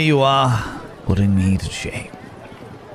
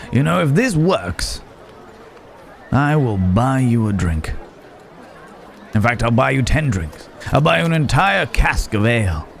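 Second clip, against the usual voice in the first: rising, gleeful generosity, growing with each offer; a touch of theatrical excitement, building to the cask; mildly elated promise; 5 semitones higher than usual. Acted. Promising a helpful friend drinks if the plan works, mildly elated.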